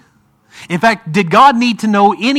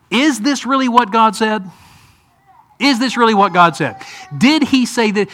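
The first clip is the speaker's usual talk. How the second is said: higher-pitched, doubting sarcastic question; 3 semitones higher than usual. Acted. Preacher voices Satan questioning Eve about God's word, sarcastic. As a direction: question it with mock disbelief. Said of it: "Do you hear sarcasm in".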